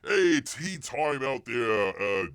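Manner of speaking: slow, loud hammed-up British call; mock Cockney accent. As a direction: drag out a fake Cockney holler. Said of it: "best Cockney English".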